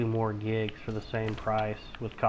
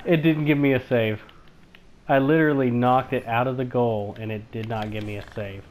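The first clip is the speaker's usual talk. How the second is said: indignant complaint; 6 dB louder than usual. Real, not acted. Complaining game denied the save.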